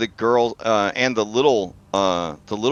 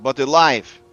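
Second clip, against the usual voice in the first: high, deliberate character voice; Kavani woman's voice; 7 semitones higher, 4 dB louder than usual. Acted. Game master as the woman warning about the dragon, solemn. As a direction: speak high as the solemn stranger.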